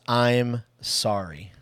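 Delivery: each word drawn out slowly; slow and deliberate. Shown as a demonstration. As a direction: let the two words land, slowly. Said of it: "it's just two words".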